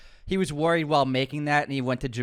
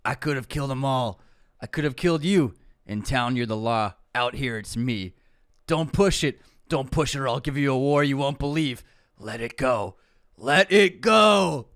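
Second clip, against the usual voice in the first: a little Southern. Acted. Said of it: "I kind of put a little Southern in there".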